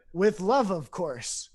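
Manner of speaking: a hint of serene divine certainty; voice of God. God giving the money question the same answer, lightly imitated. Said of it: "it sounded like God".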